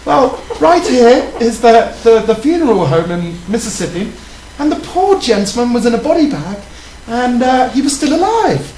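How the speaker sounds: prim English lady voice. Pretend. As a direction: tell it like a proper lady. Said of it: "Tell me more, Stuart, in your lady voice".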